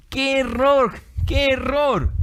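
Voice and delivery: emphatic exclamation. Real, not acted. Preacher decrying a brother's mistake, emphatic exclamation.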